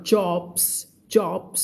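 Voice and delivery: JOBS with a rounded English vowel; rounder English vowel. Shown as a demonstration. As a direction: round and lengthen JOBS slightly. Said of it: "มันจะมีความกลมของเสียงขึ้นมาอีกนิดนึง".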